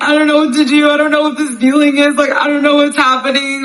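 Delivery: high-pitched bawling, sobbing cry.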